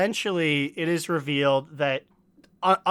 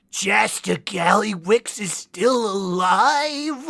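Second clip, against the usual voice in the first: mock shock; 4 semitones higher, much slower than usual.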